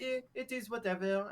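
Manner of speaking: lightly mock a bored guy; mocking imitation. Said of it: "he's like".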